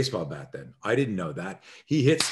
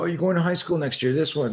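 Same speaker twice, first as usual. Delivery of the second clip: taunting bully; 7 semitones higher than usual. Retold or imitated. Bullies taunt boy about school.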